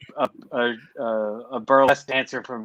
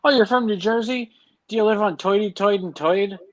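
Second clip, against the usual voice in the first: hammed-up New Jersey accent, raised pitch; 6 semitones higher than usual. Mocking a Jersey accent with "Toity Toid and Toid". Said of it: "he said".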